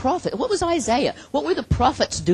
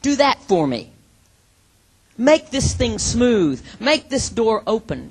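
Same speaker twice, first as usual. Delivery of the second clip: mock demanding prayer; 4 dB louder than usual. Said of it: "and say".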